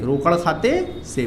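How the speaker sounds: slow, every syllable of रोकड़ खाते से spelled out for copying; slow dictation. Shown as a demonstration. Teacher dictating to class, slow and deliberate. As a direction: dictate रोकड़ खाते से slowly so students write it. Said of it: "पूरा देखो".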